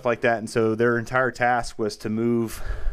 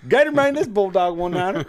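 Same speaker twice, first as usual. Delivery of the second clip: over walkie talkie; 9 semitones higher, 5 dB louder than usual. Retold or imitated. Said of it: "pulling down his mic on his big rig".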